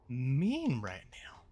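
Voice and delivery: slow whispered complaint. Real, not acted. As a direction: whisper it very slowly.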